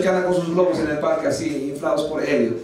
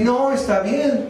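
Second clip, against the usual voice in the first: imagined lenient God; 3 semitones higher than usual. Acted. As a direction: wave it away in mock leniency. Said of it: "Dios va a decir".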